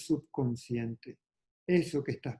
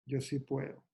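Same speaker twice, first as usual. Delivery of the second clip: "Yo sí puedo" repeated softly, gently, to oneself; a soft, reassuring echo of the first take; whispered-down self-reassurance; quiet affirmation; 7 dB quieter than usual. Retold or imitated. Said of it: "Y decir".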